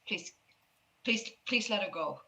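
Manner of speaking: mild, halting pleading. Acted. Scared man begs strangers to release the girl, mildly pleading. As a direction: beg haltingly, repeating yourself. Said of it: "he's, like, pleading".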